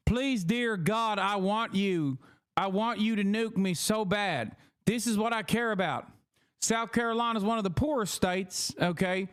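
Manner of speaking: lightly voiced South Carolina politician; a hint of a zealous senator's put-on accent; hawkish politician impression.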